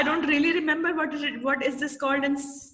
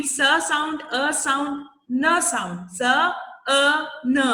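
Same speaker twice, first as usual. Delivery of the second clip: स, अ, न said slowly, one by one; sounds given separately; much slower than usual. Shown as a demonstration. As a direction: separate each sound: स, अ, न, with a pause between. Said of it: "मैंने आपको sound दी".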